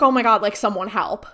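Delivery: loud mock panicked yell for help; half-acted cry for help; retelling a scream with a burst of volume; retold scream. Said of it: "he starts screaming".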